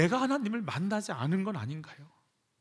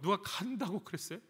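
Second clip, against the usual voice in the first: ordinary talk, nothing marked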